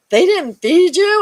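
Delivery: high, slow, loud disbelief; shocked question. Retold or imitated. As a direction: retell the nurse's shock, drawn out. Nurse shocked patient wasn't fed.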